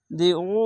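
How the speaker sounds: "উ" held very long from a squeezed throat; long madd. Shown as a demonstration. Teacher showing madde arzi, vowel greatly drawn out. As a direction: draw "উ" out three alifs, pressing the throat for ayn. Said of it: "তিন আলিফ টেনে পড়বেন".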